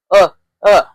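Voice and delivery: "Uh, uh" like the start of umbrella; two separate short "uh" vowels; short U sound. Shown as a demonstration. Teacher says think umbrella, short U sound. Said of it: "Think as an umbrella".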